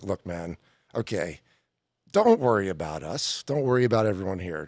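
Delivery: low, soft coaxing coach voice; calm pep talk. Retold or imitated. Coaching a nervous young performer, low soft reassuring tone. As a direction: talk him down gently, like a coach. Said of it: "the logic of the Phil Jackson is like".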